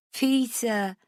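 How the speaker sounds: put-on giggled drunk name; giggling. A narrator's reading. Drunk Rach giggling at her own mistake to Matt. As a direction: let the name dissolve into a giggle. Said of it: "I giggle".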